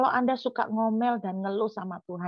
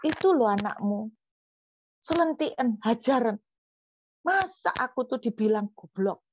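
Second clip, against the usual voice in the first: indignant, higher-pitched complaint; venting to God; 3 semitones higher than usual. Retold or imitated. Preacher complains to God about being called stupid, indignant venting. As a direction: re-enact pouring out a grievance. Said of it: "saya curahkan isi hati saya".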